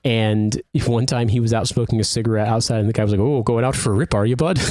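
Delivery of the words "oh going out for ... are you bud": lightly imitating a Canadian landlord; a touch of chummy Canadian accent; casual mock-Canadian, matey question. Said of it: "landlord in London who was Canadian".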